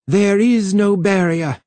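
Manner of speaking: high-pitched, urgent cry. A narrator's reading. Twistle cries out at the rising numbers, crying out. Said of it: "Then Twistle cried".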